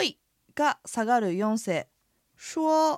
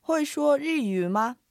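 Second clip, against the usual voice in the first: slow, higher, carefully drawn-out syllables; model pronunciation; 5 semitones higher, slower than usual. Shown as a demonstration. Teacher models today's Chinese sentence for listeners, slow and careful. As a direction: say it slowly for learners to copy.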